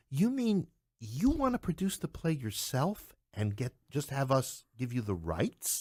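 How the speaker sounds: imitating her amazed disbelief; incredulous tone. Production woman asking him in disbelief, incredulous. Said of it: "with kind of an incredulous tone".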